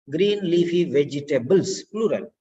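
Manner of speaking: vegetables with a clear final s; stress the plural. Shown as a demonstration. Teacher correcting a student's singular, stressing the plural. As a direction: say vegetables ending on a crisp s. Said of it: "Green leafy vegetables, you have to say".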